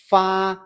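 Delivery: fa held level and high; steady high tone. Shown as a demonstration. Teacher modelling the first tone of fa for learners. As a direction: hold fa on one high, even pitch. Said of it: "Say it with a steady high tone".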